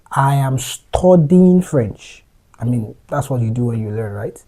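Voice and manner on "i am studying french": very slow, deliberate English sentence; slow model sentence. Shown as a demonstration. Teacher slowly models the English sentence. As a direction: say each word slowly for learners. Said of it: "say it like this".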